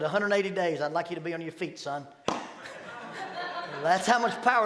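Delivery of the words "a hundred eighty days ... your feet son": stern judge. Retold or imitated. Judge doubling the sentence.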